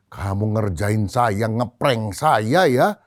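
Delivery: slow, drawn-out reproach; acted indignant farmer. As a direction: stretch each phrase in mock indignation. Farmer protests being pranked. (protes kesal yang diulur pelan)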